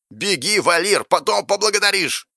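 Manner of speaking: high-pitched, hurried-sounding urging; urgent command. Acted. Vanity telling Valir to run, urgent.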